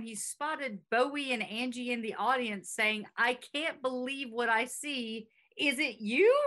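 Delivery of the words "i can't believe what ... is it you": impression of a singer. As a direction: gush like a stunned fan. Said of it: that it was an impression of the singer.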